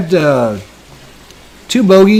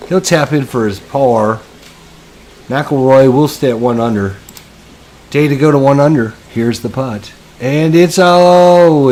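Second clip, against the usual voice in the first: golf commentator. Acted. Mock golf broadcast continues.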